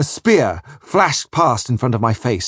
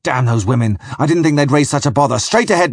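shouting; 3 semitones higher than usual. Acted. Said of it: "he shouted".

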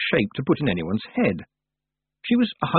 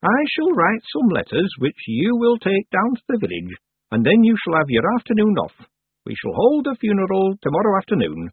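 high, deliberate character voice; old witch, businesslike; 10 semitones higher than usual. Acted. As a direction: give orders formally as the old witch. Old witch gives instructions.

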